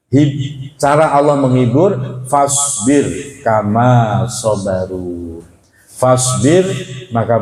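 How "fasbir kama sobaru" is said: Quran recitation. Acted. Preacher quotes Quran verse.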